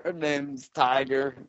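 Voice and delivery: lightly voiced stoned jam-band fan; dreamy burnout dude, drifting; stoned hippie.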